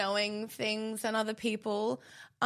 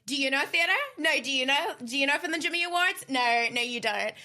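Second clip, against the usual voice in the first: higher, louder, smug quizzing; boastful stranger; 5 semitones higher, 3 dB louder than usual. Retold or imitated. Fan mocking friend about theatre, mock boastful. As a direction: lord it over them like a know-it-all. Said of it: "being so boastful about it".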